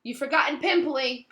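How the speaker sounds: hissed taunt. Acted. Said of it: "Peeves hissed in her ear".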